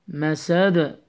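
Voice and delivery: مسد with a bouncing echo on the final d; qalqalah. Shown as a demonstration. Teacher shows the stop, echoed d in مسد. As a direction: release the d of مسد with a small bounce. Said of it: "you need to apply the قلقلة".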